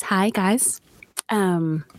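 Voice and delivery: low, breathy sultry host voice. Pretend. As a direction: purr it like a perfume ad. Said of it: "my little sultry voice cracks me up".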